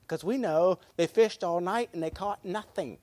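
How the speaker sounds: ordinary delivery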